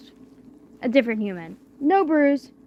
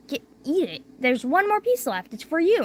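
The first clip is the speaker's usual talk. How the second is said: pushy cook; 7 semitones higher than usual. Retold or imitated. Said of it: "He was like".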